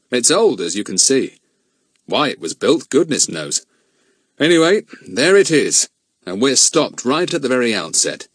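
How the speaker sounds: a lightly voiced grown man, grave; steady adult man puzzling it out; a hint of a serious man; the speaker's own voice. He explains.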